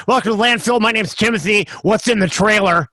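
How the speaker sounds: a hint of an officious dump attendant; dump gatekeeper. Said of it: "who's the gatekeeper of the".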